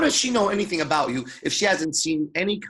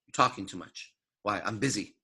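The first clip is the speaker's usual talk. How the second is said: quiet inner dialogue; 7 semitones lower, 6 dB quieter than usual. Retold or imitated. Dialogue with own mind.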